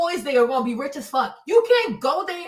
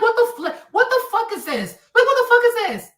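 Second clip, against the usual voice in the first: high-pitched, laughing incredulous outburst; exasperated disbelief; 8 semitones higher, 4 dB louder than usual. Retold or imitated. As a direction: laugh in disbelief as your voice climbs. Acts out own baffled reaction.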